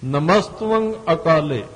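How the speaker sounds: slow ਨਮਸਤਵੰ, v blended into t, nasal ending; v inside the t. Shown as a demonstration. Preacher models the correct reading, ਨਮਸਤਵੰ with centred v and nasal end. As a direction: say tv as one sound in ਨਮਸਤਵੰ, slowly. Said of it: "ਉਹਨੂੰ ਤੱਤੇ ਦੇ ਬਿਲਕੁਲ centre ਵਿੱਚ ਬੋਲਣਾ ਹੈ".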